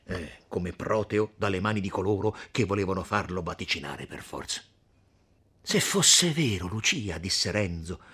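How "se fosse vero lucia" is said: pleading hope. Acted. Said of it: "aria d'aspettazione supplichevole".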